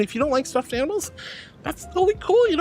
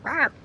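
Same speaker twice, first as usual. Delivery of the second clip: playful shark rawr; 7 semitones higher than usual. Pretend. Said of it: "I'm a shark".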